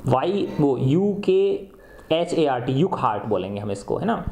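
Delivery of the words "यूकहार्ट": "यूकहार्ट" with the first R left silent; silent R pronunciation. Shown as a demonstration. Teacher showing how to say the surname, "यूकहार्ट" with silent first R. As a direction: say "यूकहार्ट" as YUK-hart, no R before the K. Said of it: "आर silent है इसमें".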